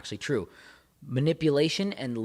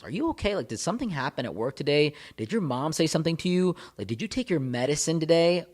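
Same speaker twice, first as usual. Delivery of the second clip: mock concern; 4 semitones higher than usual. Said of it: "blaming it on something else".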